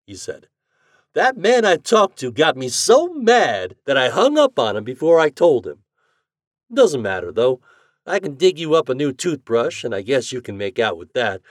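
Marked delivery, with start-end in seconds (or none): 1.2-11.4 lightly voiced doctor, brisk; a hint of a hearty host. A narrator's reading.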